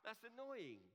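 high, slow, fed-up groan of annoyance; drawn out like a jealous sigh; mock exasperation. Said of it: "And I'm thinking".

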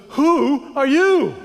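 drawn-out scared who-are-you; startled question. Retold or imitated. Hitchhiker to the stranger who knows everything, startled. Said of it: "this guy looks at him and goes".

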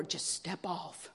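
slow, soft, luring voice in her head; eerie quiet voice. Retold or imitated. Inner voice luring her to step off, slow and soft. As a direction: coax her to step off, softly and slowly. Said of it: "this voice said over and over".

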